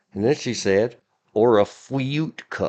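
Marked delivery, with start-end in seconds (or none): 1.4-2.7 slow, drawn-out, cartoon-style woman's voice. Quoting a woman asking about side orders, Elmer Fudd-like woman's voice. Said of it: "she was very Elmer Fudd, but in a woman voice".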